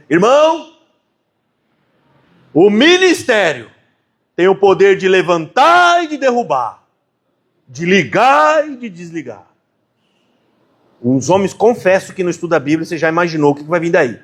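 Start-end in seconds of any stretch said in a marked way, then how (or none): 0.1-9.5 a hint of the presiding elder's weighty pulpit cadence; imitating the elder. Imitating the elder president addressing the brethren, slow and solemn. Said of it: "eu vou até tentar usar a entonação de voz dele".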